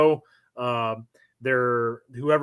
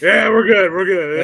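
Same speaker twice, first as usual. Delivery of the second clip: loud, higher-pitched mock assurance; overeager assurance; 5 semitones higher, 9 dB louder than usual. Hungover Marines answering their NCO, overeager mock assurance. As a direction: insist too keenly that all is fine.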